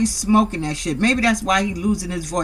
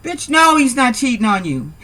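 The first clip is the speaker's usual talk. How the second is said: loud retort; 4 semitones higher, 4 dB louder than usual. Real, not acted. Yelling back at show.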